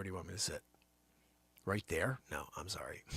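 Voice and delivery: breathy stage whisper; whispered apology to the room. Acted. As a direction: hush it like you're in class. Whispered aside while finding a seat.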